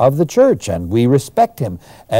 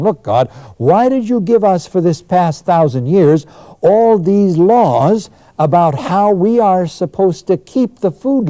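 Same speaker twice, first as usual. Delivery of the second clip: crying out at God; 6 semitones higher than usual. Retold or imitated. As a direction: plead and protest to God, pitch up. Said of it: "crying out at God".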